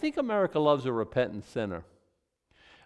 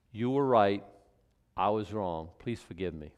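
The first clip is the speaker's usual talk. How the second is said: sincere apology; 4 semitones lower than usual. Shown as a demonstration. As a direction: lay it down gently and mean it. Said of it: "That's an apology".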